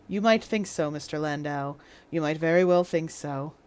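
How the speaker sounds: a lightly voiced judge, coolly dismissive; dry English judge. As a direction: judge brushing off Landau's complaint. Judge replies to Landau.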